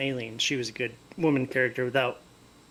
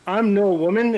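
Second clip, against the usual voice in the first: mock proud declaration; 6 semitones higher, 7 dB louder, slower than usual.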